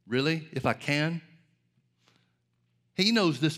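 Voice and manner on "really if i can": incredulous question thrown back; lightly mocking disbelief; mild sarcasm. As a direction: toss it back with a touch of sarcasm. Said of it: "a little bit of sarcasm".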